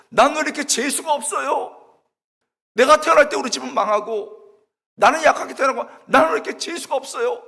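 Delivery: high, loud railing at heaven; defiant protest. Retold or imitated. Student talking back to God over bad luck, loudly defiant. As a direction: talk back to God at full voice. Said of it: "하나님 대드느라고".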